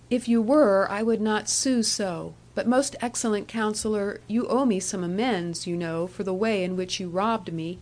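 coaxing young woman, lightly voiced. Annie teases the Counsellor.

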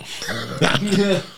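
a short high laugh. Real, not acted. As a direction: burst out laughing. Laugh after punchline.

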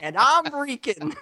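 a hint of a whiny woman; man doing a woman's voice. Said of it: "the girl show's impression".

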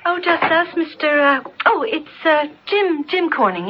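high, flustered and overly bright; flustered bluffing. Acted. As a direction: fake innocence when caught. Caught sneaking in.

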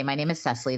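Cecily said with a short first vowel, SESS-lee. Shown as a demonstration. Telling new people her own name, Cecily as SESS-lee. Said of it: "when they meet me and I say".

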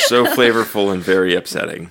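put-on British villain delivery; British accent. Demure bad guy finishing the line, British accent. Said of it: "doing it in a British accent".

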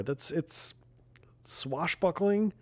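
slow, drawn-out whisper of swashbuckling. Pretend. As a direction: breathe the word like a secret. Mock dramatic whisper on word.

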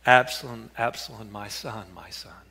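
starts as a call and fades to a near-whispered lament; grieving father's cry. Acted. David mourning his dead son, fading grieving cry. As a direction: let the grief drain the voice away to nothing. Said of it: "David cries out".

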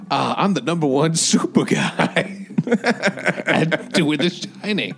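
slow, laughing mock voice of an actor from The Shining; impression of an actor from The Shining. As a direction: drawl it out slow and amused. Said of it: "He's like".

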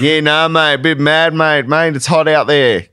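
high-pitched broad Australian grumble; hammed-up bogan Australian complaint; white bogan Australian. Shown as a demonstration. Mate griping about the heat, broad bogan Australian. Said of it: "white bogan Australian".

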